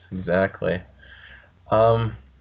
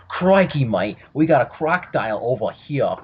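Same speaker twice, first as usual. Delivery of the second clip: put-on failed Australian accent; 3 semitones higher than usual. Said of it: "I can't do an Australian accent".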